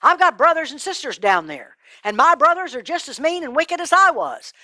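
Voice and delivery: high, insistent appeal; urgent pleading. Acted. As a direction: argue desperately to be sent as a messenger. Rich man begs urgently for brothers.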